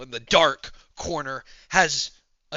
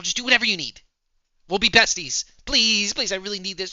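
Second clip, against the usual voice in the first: high, eager begging; pleading; 4 semitones higher than usual. Acted. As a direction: beg a friend urgently. Begging a new friend for help.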